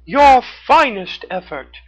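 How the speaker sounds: high, bright cartoon raccoon. A narrator's reading. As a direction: pitch way up for a friendly raccoon.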